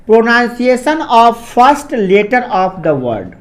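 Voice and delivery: very slow, every word spaced for note-taking; slow dictation. Shown as a demonstration. Teacher dictating a rule to students, slow and spaced. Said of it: "इसको note, note कर लीजिएगा".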